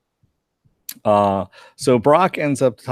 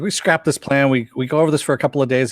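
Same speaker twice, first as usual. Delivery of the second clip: pissed off; 5 semitones higher, faster than usual. Retold or imitated. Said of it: "He's just really getting pissed off".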